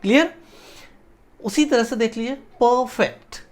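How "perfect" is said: "perfect" said as two separate syllables; syllable breakdown. Shown as a demonstration. Teacher showing students the syllables of a word, broken up. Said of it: "अब जैसे stress कहाँ पड़ता है".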